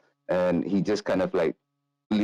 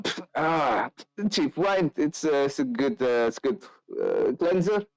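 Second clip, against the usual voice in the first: higher, dismissive brawler; scoffing drunk; 6 semitones higher than usual. Acted. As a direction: sneer at the cheap wine. Carl scoffs at wine.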